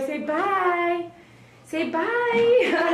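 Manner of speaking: high-pitched coaxing, as to a puppy; pet-coaxing voice. Real, not acted. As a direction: coax a dog, voice lifted high. Coaxing dog to say goodbye.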